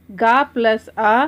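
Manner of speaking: गा plus आ spelled out slowly, each part said clearly; teacher slowly joins the parts; slow syllable build-up. Shown as a demonstration. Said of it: "इनका रूप पूरा होता है".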